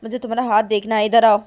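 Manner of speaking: very high, loud angry yelling; shouting mother. Acted. Mother yelling at daughter who ran off, very high and loud. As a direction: yell at her to come back now. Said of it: "काजल की mummy बोलती".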